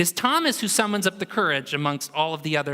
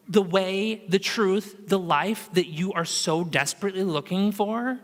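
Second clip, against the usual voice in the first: tender reassurance. Retold or imitated. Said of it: "He's not mad at Thomas".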